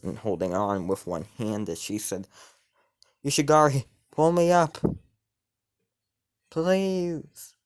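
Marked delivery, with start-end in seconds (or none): 3.2-7.5 high, loud cry for help; desperate plea. Acted. Woman hanging from a balcony begs him to pull her up, desperate plea. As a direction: call out high and urgent, pleading to be pulled up.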